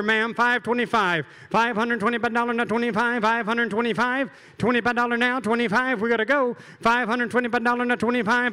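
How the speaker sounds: rapid rhythmic auction chant; auctioneer. Acted. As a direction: rattle off bids like an auctioneer. Auctioneer calling bids again.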